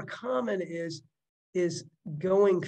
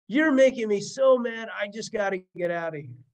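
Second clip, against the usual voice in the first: angry exit line; 3 semitones higher, 4 dB louder than usual. Retold or imitated. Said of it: "that's dropping a bomb".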